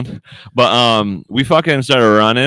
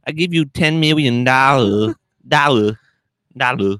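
put-on Asian accent; 2 semitones higher than usual. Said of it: "I still haven't mastered my, my Asian accent".

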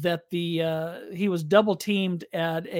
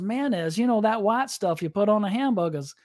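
put-on Cajun accent; 3 semitones higher than usual. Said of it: "that Cajun accent".

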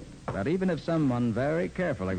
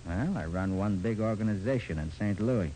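gangster dialect; 2 semitones lower than usual. Acted. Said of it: "in my best gangster dialect".

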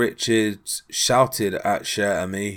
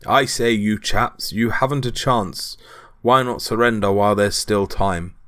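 hint of a British accent, measured taunt; mock British accent. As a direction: put on a touch of polite British English. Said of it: "apparently in a British accent".

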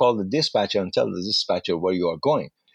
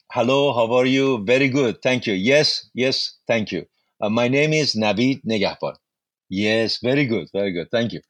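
halting beginner English; 3 dB louder than usual. Retold or imitated. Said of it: "So that was my English, very limited".

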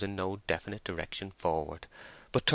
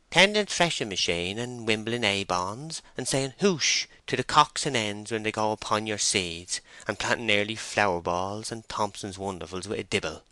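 slightly raised rustic woman's voice; lightly voiced, eager farm girl; country working woman; 3 semitones higher than usual. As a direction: reel off the chores like a farm woman. Voices the two farm women.

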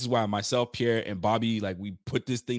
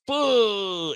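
frustrated huff; 9 semitones higher, 5 dB louder than usual. Retold or imitated. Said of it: "sitting here going".

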